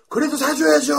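high-pitched pupil whine; mock wheedling protest. Students who lost still demanding hamburgers, wheedling.

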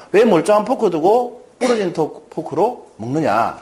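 lightly voiced reproach, slowly drawn out; mock parental scolding. Parent asking daughter about the broken fork, mildly scolding. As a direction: question the child in mild, slow disapproval. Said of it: "이렇게 얘기하시겠습니까".

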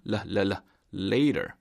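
touch the tongue for the l in "라" and "Later". Shown as a demonstration. Teacher drilling tongue position, clear l in "Later". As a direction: isolate "라", then say "Later" with a clear l. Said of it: "혀가 답니다".

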